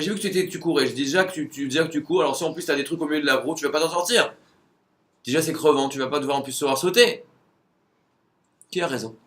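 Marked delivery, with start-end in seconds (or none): 0.0-7.2 louder, higher cheerful explaining; proud of doing him a favour; the Texan tells the runner why he cleared the hurdles, in a loud higher cheerful voice; helpful Texan. Retold or imitated.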